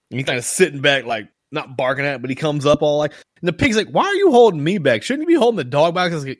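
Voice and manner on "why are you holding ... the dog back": higher, put-out retold question; mock protest. Pig objects to being held back, mild mock protest. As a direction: complain lightly, pitched up, as the pig.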